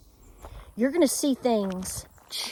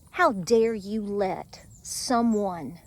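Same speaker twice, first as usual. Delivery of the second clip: stern self-rebuke; 3 semitones lower, 4 dB quieter, much slower than usual. Retold or imitated. Retold scolding of herself.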